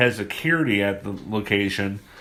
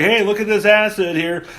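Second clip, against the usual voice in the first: high, louder mischievous gremlin voice; gleeful gremlin; 9 semitones higher, 5 dB louder than usual. Retold or imitated. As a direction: show off the acid like a prankster.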